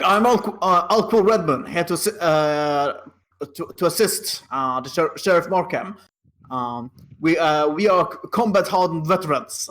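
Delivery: half-hearted in-character shout, stumbling over words; mild shout. Acted. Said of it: "shout at".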